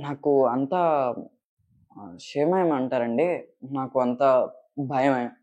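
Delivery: slow, halting confession of fear; fearful film dialogue. Shown as a demonstration. Actor starting a requested dialogue about fears, slow and hesitant. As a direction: act timid, with long hesitant pauses. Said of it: "అన్న dialogue నుంచి start చేయి".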